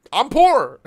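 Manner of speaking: laughing it out, pitch jumping up; giggling self-mockery. Real, not acted. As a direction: laugh through the confession. Joking about being broke.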